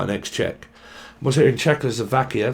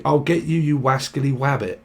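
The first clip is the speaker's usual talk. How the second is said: lightly voiced cartoon hunter; a hint of the rabbit hunter; 2 semitones higher than usual. Reader quoting the cartoon hunter she hears, lightly voiced. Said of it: "But I keep hearing".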